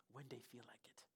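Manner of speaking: very soft, low voice; unbothered reply. Retold or imitated. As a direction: imitate an unhurried pastor, almost under your breath. Imitating the pastor's unbothered reply.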